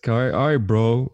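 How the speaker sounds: imitating an awkward guy's goodbye; mock-casual, noncommittal sign-off; offhand bro brush-off. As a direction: deflect with casual bro talk. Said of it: "It was always like this".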